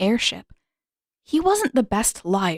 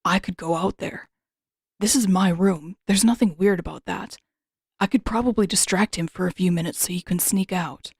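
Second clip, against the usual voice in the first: lightly voiced Zuko. Zuko's lines voiced by narrator.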